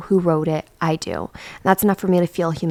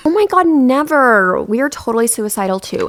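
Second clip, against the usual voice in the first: mocking replay; 5 semitones higher, 3 dB louder than usual. Shown as a demonstration. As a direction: drag it out to show how absurd it is. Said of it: "has the exact same energy as".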